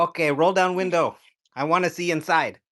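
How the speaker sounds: high-pitched mock Asian grandma; imitating Asian grandma. Grandma questioning the Cybertruck driver, in a high imitated voice. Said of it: "this Asian grandma".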